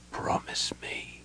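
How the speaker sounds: slow, breath-only dying plea; whispered. A narrator's reading. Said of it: "Caramon whispered".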